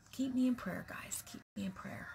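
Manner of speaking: soft whisper, no voice; whispered plea. Real, not acted. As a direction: whisper a heartfelt request. Asking viewers to pray.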